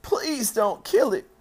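high, loud, slow pleading wail; drawn-out tearful plea; sobbed plea. A narrator's reading. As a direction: beg like a distraught little girl. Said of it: "she sobbed".

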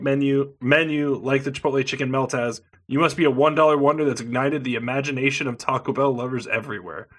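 reading the ad copy quickly; mock salesy promo read. Reading the menu text aloud.

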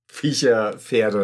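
slow words through laughter; laughing. Real, not acted. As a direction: laugh while saying it. Laughing mid-word after a pun.

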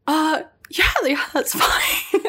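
high, drawn-out casual yes breaking into laughter; feigned nonchalance. Retold or imitated. Accepting the job offer on the phone, feigned nonchalance. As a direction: play it cool and fail, laughing by the end. Acts playing cool on phone, thrilled.

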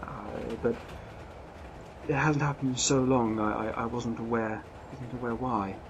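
a hint of a flustered, apologetic lady; lady barely shifted from the narrator's voice, apologising; lightly voiced lady passenger. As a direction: play the refined traveller, shaken and sorry.

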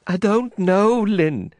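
frightened woman crying out to Lynn. Acted. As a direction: cry out his name in distress. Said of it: "she cried".

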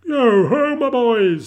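jovial boss's loud, high hail; big, rich, merry shout; Fezziwig. A narrator's reading. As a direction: holler heartily to the lads. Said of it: "fat, jovial voice".

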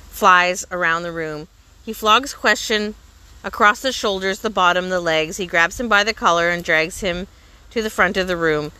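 ordinary delivery

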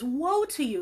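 preacher quoting Jesus to the church, railing. Retold or imitated. Quote a stern denunciation with some force. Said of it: "railing on the teachers".

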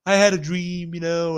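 lightly voiced weed-smoking hippie; a hint of stoner caricature; mock stoner hippie. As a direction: imitate a spaced-out hippie visionary. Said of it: "He has to talk like this".

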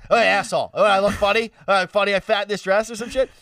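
mock mom, shrill with suspicion; annoyed mom. Mom voiced in retold story.

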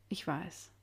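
softly, a touch choked up; lump in throat. A narrator's reading. Rose answers Mickey about him not returning, quietly choked up. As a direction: say it small, past a lump in the throat. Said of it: "Ein Kloß im Hals".

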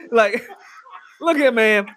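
slow laughing aside. Real, not acted. Cracking up at gusher joke, laughing. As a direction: laugh through it. Laughing during gross story.

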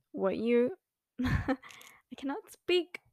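stoned, tripping over words; high and losing the words. Real, not acted. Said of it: "I do be baked right now".

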